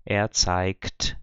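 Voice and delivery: zeigt pronounced with k before the t; zeigt, G devoiced to k; K sound for G. Shown as a demonstration. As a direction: say zeigt as if spelt with a K. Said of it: "com som de K".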